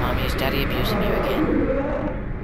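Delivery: put-on shouting little kid; loud toddler voice. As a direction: yell it like a bratty toddler.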